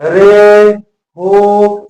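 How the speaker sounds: रे called loud as if to someone far away; calling out. Shown as a demonstration. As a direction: shout रे across a distance. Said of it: "किसी दूर स्थित व्यक्ति को बुला रहा है". (दूर के व्यक्ति को पुकारते हुए)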